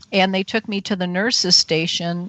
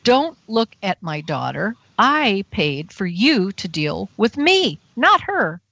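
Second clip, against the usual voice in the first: retold maternal warning. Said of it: "And my mother goes".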